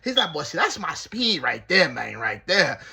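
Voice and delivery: put-on loud, smitten old man voice; smitten cellmate. Cellmate praising the TV host, loud and smitten. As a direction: lay it on loud like a lovestruck old player. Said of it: "He said".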